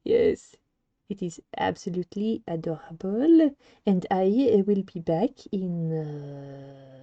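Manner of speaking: hammed-up French accent attempt. Shown as a demonstration. Streamer announces a break, attempted French accent. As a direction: keep up the put-on French accent. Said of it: "I can do a French accent".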